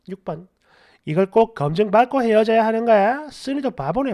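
animated story-channel reading; comment read-aloud. Acted. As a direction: read out indignant online replies. Reads listener comments aloud.

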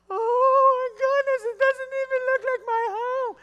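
gasp, then squeal in hammed-up amazement; overjoyed astonishment. Homeowners seeing their restored house, acted overjoyed astonishment. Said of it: "And the people are like".

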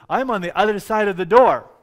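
high, forceful call through a door; crying out. Acted. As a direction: call it out urgently to the people. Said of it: "he's crying out to his people".

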